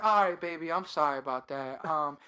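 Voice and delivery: low, soft sweet-talking voice; smooth apologizing man. Retold or imitated. Man apologizing to the caller for the texts, smooth imitation. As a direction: lightly play him low and smooth. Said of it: "now he's like".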